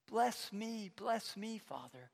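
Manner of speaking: understated begging, without real tears; tearful plea. Acted. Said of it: "he weeps bitterly".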